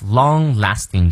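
long-lasting run together as one word; linked long-lasting. Shown as a demonstration. Teacher showing how long-lasting links up. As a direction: join long-lasting smoothly. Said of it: "这里要和到一起去念".

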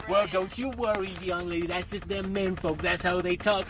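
lightly voiced reassuring mother; calm the upset child down; soothing mama.

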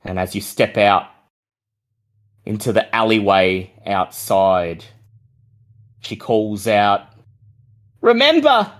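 slow, even scene setting; game master narration. Acted. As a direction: paint the scene for the players.

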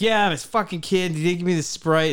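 worked-up complaint to a bystander; retold going off. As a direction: launch into a re-enacted gripe. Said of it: "I started going off".

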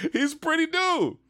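high, giddy squeal of admiration; giddy gushing. Real, not acted. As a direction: gush it in a very high voice. Gushing, laughing over the man's looks.

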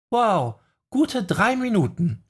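put-on high, slow teasing young woman. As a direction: stretch it out, lightly mocking. Jessica teases after long silence.

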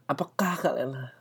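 hushed unvoiced whisper. Real, not acted. Whispering a question to the listeners. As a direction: lean in and whisper it.

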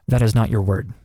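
laughing while scolding. Real, not acted. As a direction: say it through laughter. Laughing retort.

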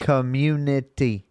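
"Community" sounded out slowly; syllable by syllable. Shown as a demonstration. Checking his own word aloud, "Community" syllable by syllable. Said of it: "doing syllables and shit".

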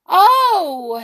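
high, loud gasp of amazement; astonished cry. Acted. Goblin sees the bottled wizard and cries out in amazement. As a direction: cry out in shock at the sight. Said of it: "he cried".

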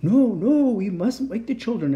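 high, loud start easing down; eager agreement. A narrator's reading. Santa agreeing with the family's dog, emphatic. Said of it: "agreed Santa".

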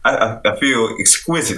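laughing through a posh English voice; mock-posh English gent; posh British accent.

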